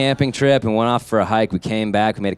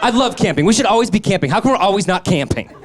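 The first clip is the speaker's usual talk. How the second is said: much higher, giddy and laughing; high excitement; 9 semitones higher than usual. Retold or imitated. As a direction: gush like you're wired. High-on-cocaine retold rant.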